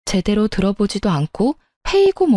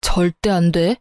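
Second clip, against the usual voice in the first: cold flat refusal; 2 semitones lower than usual. A narrator's reading. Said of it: "아주 냉정하게 절대 안 된다고 말했어요".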